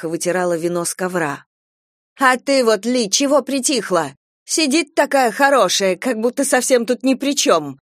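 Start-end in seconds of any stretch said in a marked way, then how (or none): 2.2-7.8 angry jab. Acted. Flo turns on Lee.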